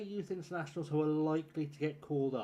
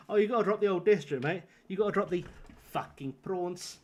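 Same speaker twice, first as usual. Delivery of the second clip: put-on South African accent; 4 semitones higher, 4 dB louder than usual. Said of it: "doing a South African accent".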